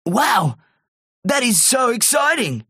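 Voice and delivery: high, thrilled character voice; high-pitched delight; excited. A narrator's reading. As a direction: gush over the prize. Terry hears he won a prize.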